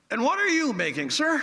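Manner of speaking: a hint of a polite royal asking the worker; the visiting royal politely asks the dough man, with only a hint of her voice; mild royal lady voice. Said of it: "and she says".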